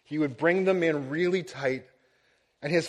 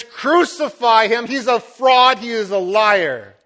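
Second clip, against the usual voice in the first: loud, higher furious shout, slowed; angry crowd yelling; 5 semitones higher, 9 dB louder than usual. Retold or imitated. The crowd turning on Jesus, loud angry shout. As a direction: hurl it like a turned mob. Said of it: "they yell".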